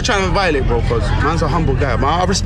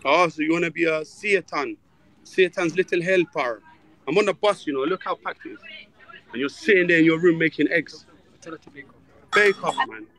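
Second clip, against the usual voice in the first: hushed on the bus; 6 dB quieter than usual. Real, not acted. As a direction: keep it down, scolding under your breath. Talking quietly on packed bus.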